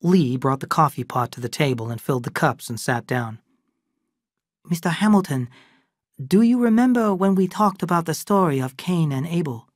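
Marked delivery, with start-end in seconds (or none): 4.6-9.7 lightly raised voice of Lee, calm and knowing; Lee character voice. Acted. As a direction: Lee speaking matter-of-factly to the old friend. Lee addresses Samuel.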